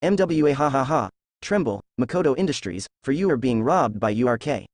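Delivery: synthesized angry robot villain voice. Acted. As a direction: boom it out like a robot. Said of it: "in a loud and synthesized voice, sounding like an angry robot".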